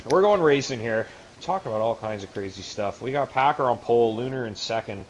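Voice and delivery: announcer kicking off the race; race broadcast intro. Acted. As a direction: open the broadcast like a host.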